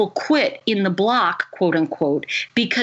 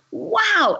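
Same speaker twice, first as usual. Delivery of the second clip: high, awed exclamation; amazed wow; 11 semitones higher than usual. Retold or imitated. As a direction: voice lifted high in admiration. Retold amazement at her story.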